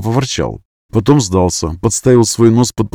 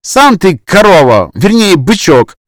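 slow, higher, louder pouty retort; capricious voice; 8 semitones higher, 7 dB louder, slower than usual. A narrator's reading. Vasiliska snaps back at Max, slow pouty voice. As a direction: sulk back at him. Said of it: "капризный голосок".

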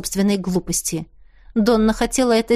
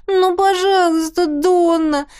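высокое капризное нытьё; выше и громче, канюча; ноет; 8 semitones higher than usual. A narrator's reading. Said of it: "и заныла". (Теа ноет, упрашивая Донну)

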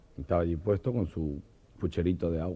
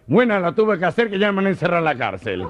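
put-on higher, louder laughing parrot in Argentine accent; 10 semitones higher, 7 dB louder than usual. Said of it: "contarlos con acento argentino".

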